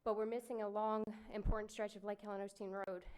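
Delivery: winded, catching breath between phrases; breathing hard after running in. Real, not acted. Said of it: "Sorry, I'm out of breath running here".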